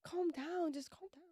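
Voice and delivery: a touch of an impatient, dismissive God. Shown as a demonstration. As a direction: brush them off, tired of it. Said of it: "picture him saying it like this".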